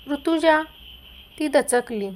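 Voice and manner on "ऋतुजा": calling her name out loud, higher and louder; husband storms in yelling for his wife; angry shout. Acted. Scene: furious husband bursts in shouting his wife's name, loud. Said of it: "जोरात ओरडतच आला".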